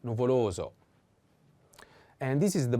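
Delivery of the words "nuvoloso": "nuvoloso" with LO lengthened; stress on second O. Shown as a demonstration. Teacher shows the accent to learners, "nuvoloso" stressed on LO. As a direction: lean on LO in "nuvoloso". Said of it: "The accent is on the second O".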